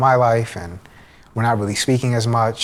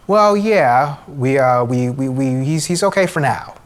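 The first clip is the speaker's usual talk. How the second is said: higher, louder stammering reassurance; hesitant head doctor; 3 semitones higher, 4 dB louder, slower than usual. Retold or imitated. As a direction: imitate a doctor fumbling for words.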